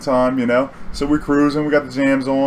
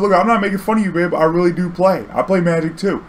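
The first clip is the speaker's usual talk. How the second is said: pleading, insistent; 8 semitones higher than usual. Retold or imitated. Driver insists to stripper he plays Magic, earnest high pleading. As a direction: protest your innocence, earnest and high.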